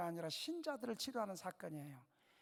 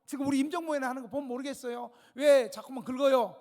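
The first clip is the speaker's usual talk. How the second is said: angry retort; 3 semitones higher, 8 dB louder than usual. Retold or imitated. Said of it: "그러면서 막 화를 내는 거예요".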